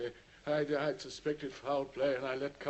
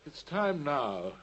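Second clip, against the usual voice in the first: strained resolve; 6 semitones higher, 10 dB louder, slower than usual. Acted. Holmes gathering strength to command.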